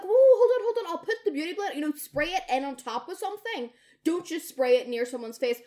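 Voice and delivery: high, loud, laughing panic; whoa, hold on, half laughing in alarm; alarmed stop. Retold or imitated. Stopping a spray near eyes.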